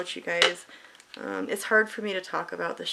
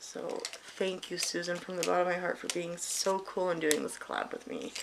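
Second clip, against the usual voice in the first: heartfelt thanks; 2 semitones lower, 4 dB quieter than usual. Real, not acted. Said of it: "sincere thanks".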